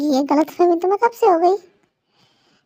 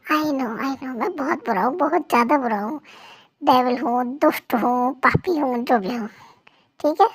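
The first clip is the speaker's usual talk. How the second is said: soft soothing; 4 semitones lower, 4 dB quieter than usual. Acted. Husband soothes upset wife.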